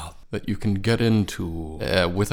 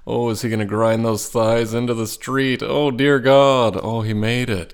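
impressed onlooker; 3 semitones higher, 4 dB louder than usual. Retold or imitated. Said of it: "and go".

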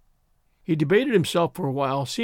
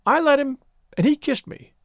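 high, louder sudden confession; blurted out; 10 semitones higher, 4 dB louder than usual. A narrator's reading. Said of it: "then blurted out".

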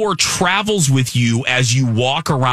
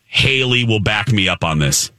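lower-pitched, sincere and deliberate; earnest; 6 semitones lower than usual. Real, not acted. Telling friends about building a lightsaber, earnest sincerity. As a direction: drop the goofiness and mean it. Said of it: "I mean this".

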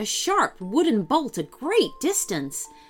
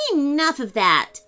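firm, raised call; shouting; 5 semitones higher, 4 dB louder than usual. Acted. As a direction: call out to stop him. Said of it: "shouted Georgie".

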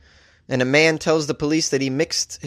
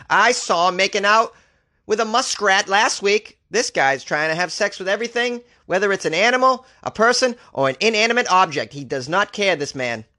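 mock witness testifying; 4 semitones higher than usual. Acts out another outraged town witness.

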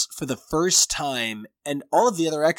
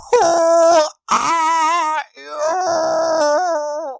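high, loud, hugely stretched crying shout; hammed-up tormented professor scream; anguished Xavier cry; 10 dB louder, much slower than usual. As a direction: wail it out slowly in torment. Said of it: "Xavier is always".

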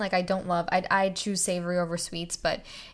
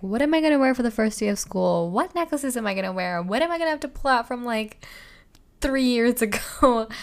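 higher, louder replay of racing thoughts; retold wondering; 4 semitones higher, 5 dB louder than usual. Recalling bedtime thoughts about first-day jewelry, retold wondering. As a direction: act out your own urgent bedtime questions. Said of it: "I was like".

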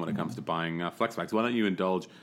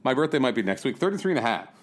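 mock vain aging player; 7 semitones higher than usual. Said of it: "Like, just like".

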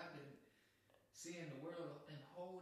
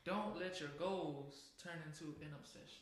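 louder, clear restatement; louder for the back; 5 dB louder than usual. Shown as a demonstration. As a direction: project it to the back row. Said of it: "The people in the back couldn't hear you".

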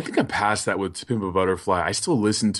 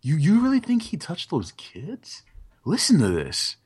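questioning tone; 5 semitones higher than usual. Retold or imitated. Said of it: "What if he's saying that?".

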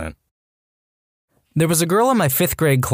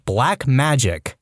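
mock ominous; much slower than usual.

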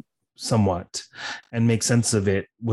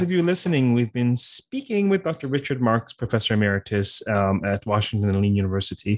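upbeat host outro, a bit faster; formal podcast sign-off; 3 semitones higher than usual. Real, not acted. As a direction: wrap up the show like a radio host. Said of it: "while I formally sign off".

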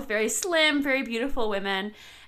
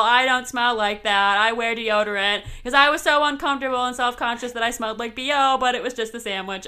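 loud start, raised rambling oversharer voice; proudly overshare in a sketch-character voice; awkward misfit self-parody; 4 semitones higher, 5 dB louder than usual. Acted. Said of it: "and I'm like".

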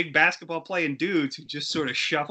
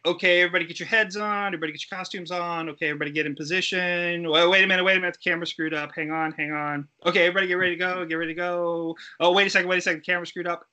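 rapid-fire, slightly raised mock crew chatter; retold hurried crew calls; 4 semitones higher, much faster than usual. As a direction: rattle off imitated set instructions.

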